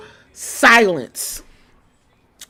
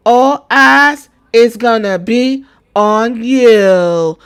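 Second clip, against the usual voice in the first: slow, dragged-out, louder promo read; mocking Jade's promo; 4 semitones higher, 4 dB louder, slower than usual. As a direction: drag it out like a clumsy wrestler promo. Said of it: "Jade said".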